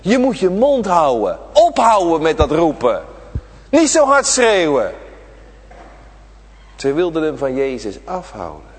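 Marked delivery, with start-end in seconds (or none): 0.0-4.9 scolding crowd. Acted. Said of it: "Ze waarschuwden hem".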